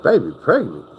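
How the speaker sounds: the news repeated back as a question; can't believe what he just heard; surprised echo. Retold or imitated. Hearing the baby news, mildly surprised.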